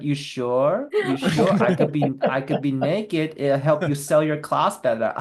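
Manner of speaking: slow, lightly voiced Tommy Wiseau pitching himself; a touch of Tommy's insistent, odd sales pitch; imitating Tommy. Retelling Tommy offering to pose naked.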